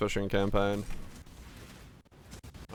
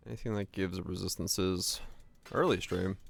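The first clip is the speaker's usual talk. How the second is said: ordinary talk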